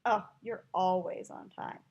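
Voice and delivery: dry mock praise, vowels stretched; sarcastic. Shown as a demonstration. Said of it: "tell the difference between those two".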